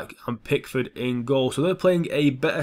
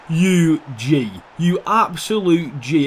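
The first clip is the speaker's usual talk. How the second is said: loud, slow hype praise; celebrating; 2 semitones higher, 5 dB louder, much slower than usual. Real, not acted. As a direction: hype up the scorer. Celebrating goal scorer.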